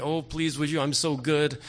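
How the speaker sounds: mock begging. Preacher mocking a begging God for the congregation, pleading tone. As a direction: play a needy, pleading God in mockery. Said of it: "he's not begging you".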